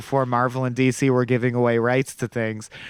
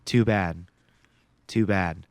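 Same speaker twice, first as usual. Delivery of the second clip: cold retort; 8 semitones lower, 3 dB quieter than usual. Retold or imitated. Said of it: "And he goes".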